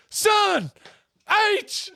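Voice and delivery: high yelled call down the street. Retold or imitated. Father calling to his son down the street. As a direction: call after him like he's far away. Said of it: "he goes".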